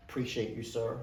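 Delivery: lightly put-on Southern US accent; a touch of the American South. Patient thanking the doctor, in a playful Southern accent. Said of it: "That's my southern accent coming".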